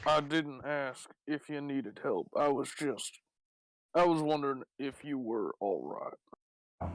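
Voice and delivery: a touch of laconic Southern cowboy; Southern cowboy accent. Acted. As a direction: restart evenly in a Southern cowboy voice. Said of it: "You sound rather southern".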